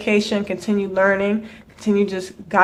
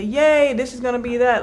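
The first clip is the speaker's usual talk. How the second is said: mock cheer; 4 semitones higher than usual. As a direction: parody the villagers' excitement.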